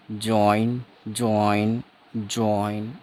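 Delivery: 'ज्वाइन' drawn out with a clear j and oi glide; pronunciation demo. Shown as a demonstration. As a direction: model 'ज्वाइन' slowly for learners. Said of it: "इस तरह से कर देंगे".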